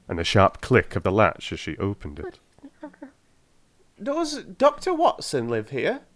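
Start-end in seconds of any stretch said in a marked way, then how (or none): 4.0-6.0 higher, slow caller's voice; a stranger's clear, harsh question at the door; slow, higher voice of a visitor asking. A narrator's reading. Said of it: "asked a clear but rather harsh voice".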